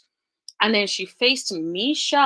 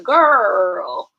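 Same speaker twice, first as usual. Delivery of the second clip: put-on exasperated girl; 8 dB louder than usual. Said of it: "I'm like".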